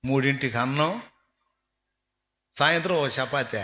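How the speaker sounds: normal talking voice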